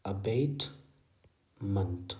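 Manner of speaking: very slow, drawn-out अबेटमेंट; teacher modelling slowly; slow model. Shown as a demonstration. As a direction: stretch every syllable. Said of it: "slow model word".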